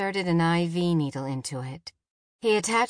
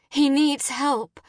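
high, urgent explanation; frantic mother on an emergency call; desperate pleading; 7 semitones higher than usual. A narrator's reading.

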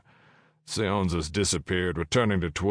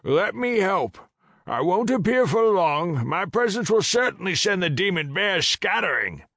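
dragon voice; 13 semitones higher, 5 dB louder than usual. Acted. Dragon offers help.

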